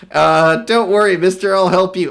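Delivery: heroic reassurance. Acted. Voicing a helpful character.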